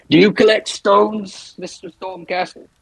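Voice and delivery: high, slow, strange put-on voice; sinister question. Mort to the prisoner Fenris, slow and sinister. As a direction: ask it slowly like an oddball stalking prey. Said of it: "He's gonna say".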